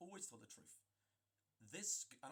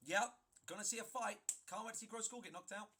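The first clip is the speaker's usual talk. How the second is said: higher, louder eager bystander voice; mock excited spectator; mocking gleeful onlooker; 6 semitones higher, 4 dB louder than usual. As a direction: play the guy itching to see a fight. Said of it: "he's like this".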